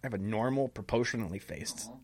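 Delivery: loud, offended protest; indignant. Acted. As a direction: protest the insult huffily.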